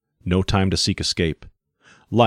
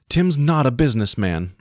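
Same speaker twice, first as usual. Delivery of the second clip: higher, quick indignant cut-in; indignant daughter; 6 semitones higher than usual. Acted. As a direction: defend him sharply. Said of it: "broke in Dorothy Lane".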